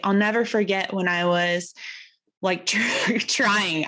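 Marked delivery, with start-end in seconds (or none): 3.2-3.9 "trying" set apart and stressed. Real, not acted. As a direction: lean on the word "trying". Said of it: "I wanna make sure I emphasize the word trying".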